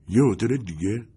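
mild surprised echo with a rise on «یه هتل دیگه». Acted. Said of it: "با تعجب پرسید". (تکرار متعجب «یه هتل دیگه» با لحن پرسشی)

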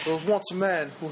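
lightly voiced British butler starting a tale; storytelling in a put-on British accent; Alfred. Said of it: "You sound like Alfred".

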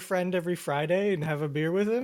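sneering question capped by a loud fake laugh; mocking jeer. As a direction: throw the teasing back at them. Mocking scoffers back with fake laugh.

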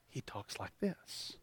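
imitating a kid who won't speak up; tiny, drawn-out whisper; barely audible imitation. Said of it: "when I need him to be loud".

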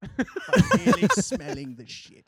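laughing Cockney film-gangster imitation; Solomon. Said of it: "Him as the old, uh, Jew Solomon".

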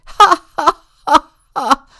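huge booming high laugh; trumpeting. Acted. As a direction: bellow like a brass band. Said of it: "someone trumpets".

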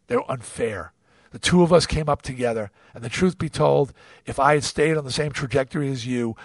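low, subdued and regretful; sincere apology. Real, not acted. Apologizing directly to his estranged friend.

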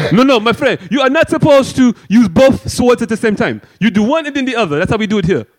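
a hint of a fussy referee; prissy rule-keeper voice.

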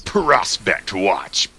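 slow, drawn-out announcer voice; monster truck ad. Pretend. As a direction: stretch each word like a hype ad. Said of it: "Like monster truck commercials".

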